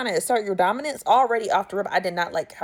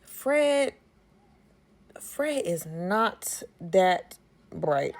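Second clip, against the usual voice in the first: drops to a slow whisper; hushed aside; much slower than usual. Real, not acted. Telling listeners Fred is dim, whispered slowly. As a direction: confide it under the breath, slowly. Aside mocking Fred's smarts.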